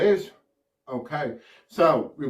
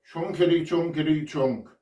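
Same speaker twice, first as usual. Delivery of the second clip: elephant impression; 2 semitones higher than usual. Shown as a demonstration. Showman counting everyone into an elephant impression, bouncy chant. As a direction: lead a playful elephant chant. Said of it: "do an impression of an elephant".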